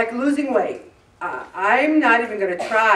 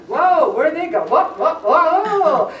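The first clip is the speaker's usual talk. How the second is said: louder, higher startled laughing whoa; startled driver; 6 semitones higher, 5 dB louder than usual. Retold or imitated. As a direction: laugh off the near miss. Startled in fast traffic.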